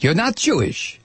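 suspicious mock German interrogator; movie German accent. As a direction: probe him in a film German accent. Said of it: "would consider a German accent".

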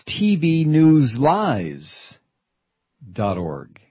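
slow, spaced-out letters; slow spelled out. Shown as a demonstration. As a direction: spell it out slowly. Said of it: "It's right there in the web address".

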